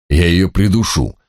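slow, menacing demon threat. Acted. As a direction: threaten like a spiteful imp.

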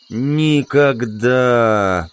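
drawn-out groan of a wounded man; pained groan. Acted. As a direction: groan it out slowly through the pain. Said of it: "простонал второй, корчась от боли". (протяжный стон от боли)

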